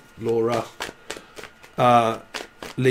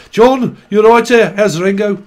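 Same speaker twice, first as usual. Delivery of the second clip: excited; 6 semitones higher, 8 dB louder than usual. Acted. Addressing channeled John Lennon.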